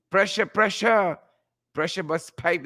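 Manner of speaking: lightly put-on catchphrase voice; a hint of a character voice; Crab Man. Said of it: "in my best Crab Man voice".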